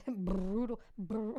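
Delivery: can't keep a straight face saying brutal; laughing. Real, not acted. Laughing at herself for repeating brutal to her listeners.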